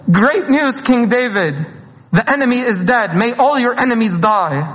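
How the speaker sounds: high, eager good-news call; a mild mock of the messenger's cheer; excited messenger. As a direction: announce it like a herald bursting with joy. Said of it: "the messenger came and said".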